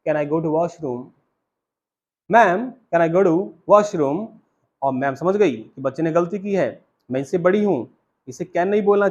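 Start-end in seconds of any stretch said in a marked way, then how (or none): 0.1-1.0 put-on polite little boy. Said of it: "बड़े ही politeness के साथ बोला". 2.3-4.3 put-on polite little boy. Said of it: "बड़े ही पोलाइटनेस के साथ बोला".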